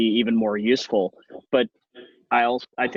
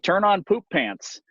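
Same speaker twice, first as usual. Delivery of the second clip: high, slow, spoken command to a smart speaker; voice command to Alexa; 8 semitones higher than usual. Retold or imitated. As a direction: call out the command slowly. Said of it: "I'm like".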